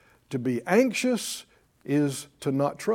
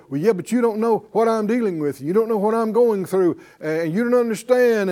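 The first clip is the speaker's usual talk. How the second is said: irritated retort; 3 semitones higher than usual. Retold or imitated. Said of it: "they'd probably get irritated with you".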